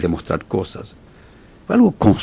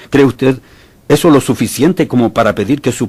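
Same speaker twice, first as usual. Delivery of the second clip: louder and higher, confronting; challenging question; 5 semitones higher, 3 dB louder than usual. Real, not acted. Preacher challenging a faith claim, loud pointed question. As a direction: challenge the listener directly.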